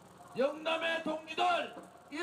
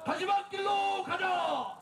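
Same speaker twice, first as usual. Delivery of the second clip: slow rally shout; 3 semitones higher, slower than usual. Real, not acted. Leader call.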